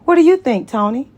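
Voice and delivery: high, loud call across the room; sassy call from the bathroom door; yelled from the door. Acted. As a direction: throw it through the door at him. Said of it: "she yelled from the door".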